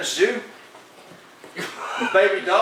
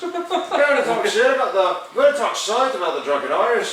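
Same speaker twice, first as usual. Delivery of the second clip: put-on failed Irish accent; faster than usual. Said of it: "You can't do it".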